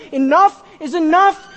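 firm divine rebuke; God's angry verdict. Retold or imitated. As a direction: thunder God's last word at Edom. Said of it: "And he says to Edom".

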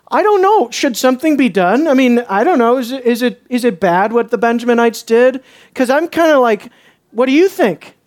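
mock-innocent shrug; playing dumb, pitch up; feigned uncertainty; sarcastic. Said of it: "do you hear the sarcasm in my voice".

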